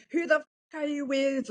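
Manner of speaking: high-pitched mock scream; imitating a jealous partner yelling; screaming girlfriend. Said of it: "she's screaming on the phone".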